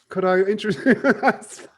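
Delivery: slow, put-on posh English accent; hammed-up English gentleman; a hint of British toff; mock English accent. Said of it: "Cup of tea".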